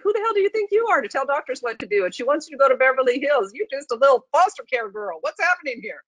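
acting out a mild panic; panicked inner voice. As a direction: rattle it off like scared self-talk, mock-panicked. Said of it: "My amygdala kicked in".

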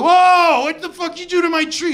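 shocked buddy. Retold or imitated. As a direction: catch your friend wrecking your tree. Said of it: "he's like".

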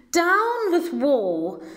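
high, slow hooting shout; high hoot, stretched slow. A narrator's reading. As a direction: hoot it loud and high, drawn out. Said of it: "he hooted".

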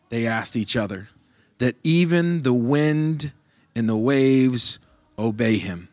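steady, measured Bible reading; scripture reading. Acted. Pastor reading Mark aloud to his congregation, measured reading. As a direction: read the passage to the church.

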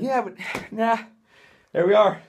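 breathless after pull-ups; puffing between words; out of breath. Real, not acted. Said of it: "I'm out of breath".

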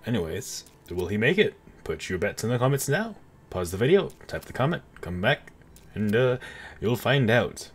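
lightly put-on narrator voice; Stanley Parable narrator. Player asking viewers to place bets, mock narrator. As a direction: address the audience like a game narrator. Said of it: "I just want to talk like that".

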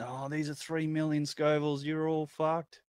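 lightly voiced hype man; mock dramatic warning. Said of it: "the Pepper X saying".

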